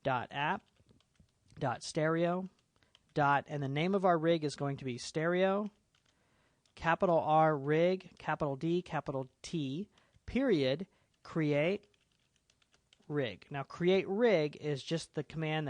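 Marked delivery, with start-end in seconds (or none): 0.0-3.4 spelled out, part by part; dictating. Shown as a demonstration. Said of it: "let's type this in". 6.8-13.4 spelling it out piece by piece; dictating. Shown as a demonstration. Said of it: "let's type this in".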